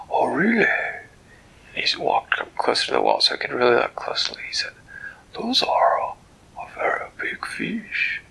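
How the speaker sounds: a delighted, fussy creature greeting a friend; Flibbertigibbet's voice. Acted. Flibbertigibbet marvels.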